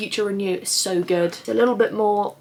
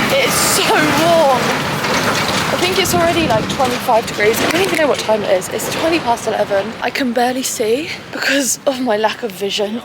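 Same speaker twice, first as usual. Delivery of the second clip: outdoor loud; 3 semitones higher, 7 dB louder than usual. Real, not acted. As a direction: talk up over the street, hot and flustered. Outdoors in the heat.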